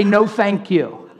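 a lightly voiced stranger saying no; polite refusal. Imitating a stranger turning down prayer, mock polite. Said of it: "They're probably gonna say".

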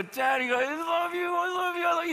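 put-on high, loud child gushing at her dad; be the toddler hanging on daddy's neck; adoring little girl. Daughter voiced hugging daddy.

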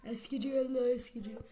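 loud peddler cry; street vendor call. Retold or imitated. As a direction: call out like a junk dealer. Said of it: "bağırmana gerek yok".

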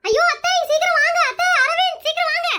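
anxious, urgent calling out; urgent call for help. Acted. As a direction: call the others over in alarm. Calls for help over collapsed man. (பதறிப்போய் உதவிக்கு அழைப்பு)

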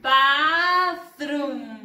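"Bathroom" loud, both syllables held long; drill model. Shown as a demonstration. Teacher has pupils follow along, loud drawn-out model. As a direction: project "Bathroom" slowly for learners to copy. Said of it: "De nuevo".

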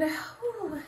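audible breath out, "whew"; relieved exhale. Shown as a demonstration. Host guiding listeners to release tension, relieved exhale.

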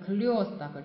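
крёсток with a clear stressed yo; ё sound. Shown as a demonstration. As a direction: draw out the yo in крёсток, slowly. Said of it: "应该是右加两点的那个右".

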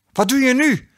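mock angry yell; angry call. A narrator's reading. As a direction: snap at him from the other room. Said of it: "riep Jan-Pier kwaad".

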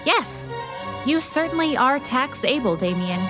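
high, pleased exclamation; delighted praise. Acted. Delighted pun praising her colleague.

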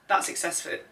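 breathy witch-like whisper; witchy voice. Pretend. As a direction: hiss it like a snippy witch. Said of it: "being a witch".

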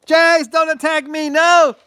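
mock terror screams for the stream; fake dog attack. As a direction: pretend to be mauled by the dog, yelping. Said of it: "You fell for it".

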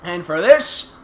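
slow, loud grandiose villain declaration; grand villain announcement. Acted. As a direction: proclaim yourself the almighty ruler. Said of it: "the almighty and powerful Megatron".

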